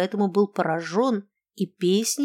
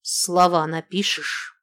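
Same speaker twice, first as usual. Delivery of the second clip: breathless. Acted. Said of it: "с придыханием произнесла".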